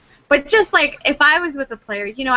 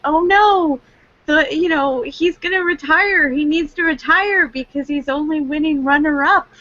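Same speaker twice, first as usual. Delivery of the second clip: mock panic; 4 semitones higher than usual. Mocking fans' overreaction.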